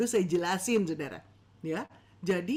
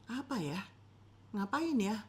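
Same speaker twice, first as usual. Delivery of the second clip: confused listener; 6 dB quieter than usual. Retold or imitated. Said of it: "mereka bingung".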